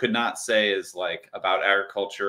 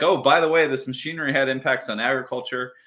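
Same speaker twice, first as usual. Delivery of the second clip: breezy, dismissive quote, pitched up and louder; mock offhand aside; 5 semitones higher, 3 dB louder, faster than usual. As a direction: toss it off like a casual afterthought. Mocking an offhand author aside.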